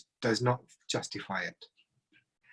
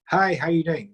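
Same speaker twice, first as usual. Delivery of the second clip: friendly greeting; 3 semitones higher, 4 dB louder than usual. Shown as a demonstration. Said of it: "same three different ways".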